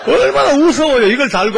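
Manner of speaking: loud incredulous laughing exclamation; excited exclaim. Real, not acted. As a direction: cry it out as if it's too much to bear. Laughing at the deacon's snot.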